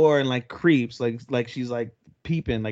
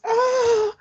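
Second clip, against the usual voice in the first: sudden high squeal of shock; startled yelp; 4 dB louder than usual. Retold or imitated. Saki squeals when her breast is grabbed. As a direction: let out a high surprised yelp.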